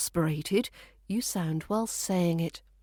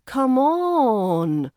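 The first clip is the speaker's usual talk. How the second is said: drawn-out, louder "on" that falls away; exasperated, stretched-out plea; annoyed; 5 semitones higher, 6 dB louder than usual. Shown as a demonstration. Teacher contrasting tones of come on, annoyed and impatient. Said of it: "that's more annoyed".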